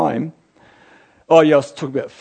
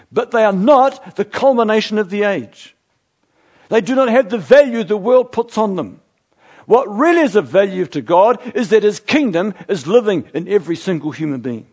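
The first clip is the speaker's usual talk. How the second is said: raised, louder preaching voice with punched key words; impassioned preaching; 5 semitones higher, 5 dB louder than usual. Real, not acted. Preacher urging the church that we're in it now, impassioned. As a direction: drive it home to the congregation.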